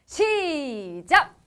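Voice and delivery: long stretched ready, go; drawn-out countdown call. Real, not acted. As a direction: stretch each word like a starting call. Host starting a game.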